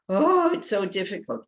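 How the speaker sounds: droopy "Oh, it's so difficult" with a falling Oh; defeated sigh. Shown as a demonstration. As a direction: sag into it, discouraged. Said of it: "totally different attitude".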